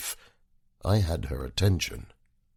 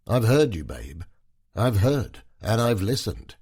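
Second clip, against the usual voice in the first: assertive, excited; 4 semitones higher, 4 dB louder than usual. Acted. Husband asserts himself.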